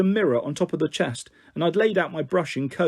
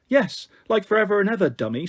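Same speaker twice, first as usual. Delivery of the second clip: light mock American accent, a little higher; silly American accent; 5 semitones higher than usual. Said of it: "in this silly American accent".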